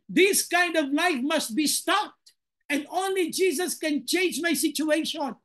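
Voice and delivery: desperate plea. Acted. Acts out blind beggar's desperate plea.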